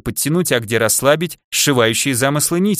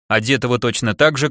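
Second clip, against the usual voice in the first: ordinary delivery, nothing marked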